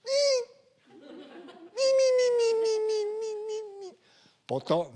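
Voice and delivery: put-on very high, strained old cicada; Otaki Hideji cicada. Old cicada crying itself out, high strained cry. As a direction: cry yourself out, then drop. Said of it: "大滝秀治さんみたいなセミ".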